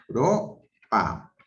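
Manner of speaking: Europa said slowly, syllable by syllable; slow Europa broken into syllables; syllabified slowly. Shown as a demonstration. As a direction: stretch out Europa, splitting its vowels. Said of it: "por ejemplo, digo".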